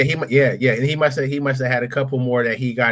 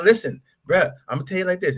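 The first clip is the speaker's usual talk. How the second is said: higher, persuasive street-talk recruiter; leaning-in recruiter; 7 semitones higher than usual. Retold or imitated. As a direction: press him like a friend letting him in on a secret. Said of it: "he talking to me just like this".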